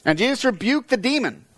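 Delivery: reading on amid laughter; laughing while reading. Real, not acted.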